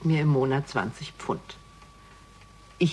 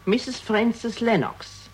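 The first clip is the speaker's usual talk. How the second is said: slow name reveal; 7 semitones higher, much slower than usual. Acted. Reveals her married name.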